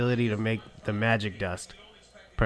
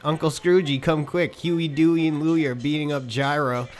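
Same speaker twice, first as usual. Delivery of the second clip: slightly higher, urgent tattletale; lightly voiced Webagal; 4 semitones higher than usual. Webagal running in to tell Uncle Scroogey, lightly acted alarm. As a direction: lightly play an alarmed snitch. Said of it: "Rebagal came running in".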